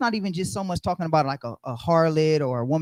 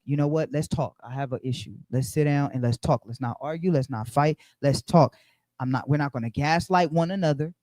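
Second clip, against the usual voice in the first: lightly voiced calm husband; 5 semitones lower than usual. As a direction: speak to your wife gently, lower and calmer. Voicing calm spouse.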